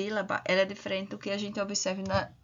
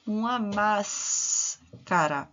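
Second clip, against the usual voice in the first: slow reading; much slower than usual. Shown as a demonstration. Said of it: "ele fisgou o quê?".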